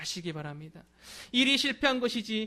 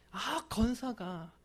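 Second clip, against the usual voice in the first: slow, dragged-out judging tone; mocking drawl; 3 semitones higher, 4 dB quieter, much slower than usual. Church members judging each other by title, slow mocking drawl. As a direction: drawl the titles as if sizing people up. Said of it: "그러면서 서로를 직분을 갖고 평가할".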